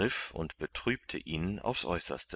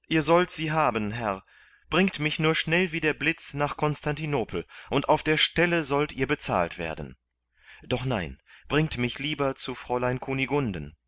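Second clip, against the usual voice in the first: eager promise; 8 semitones higher, 4 dB louder than usual. A narrator's reading. Kandid eager to pay.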